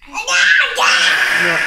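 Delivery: high laughing cry of no; laughing shout. Real, not acted. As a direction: burst out laughing. Child screamed, parent reacts laughing.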